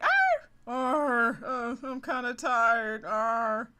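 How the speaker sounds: high growly pirate grunts; grumpy pirate growl. Acted. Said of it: "He's like".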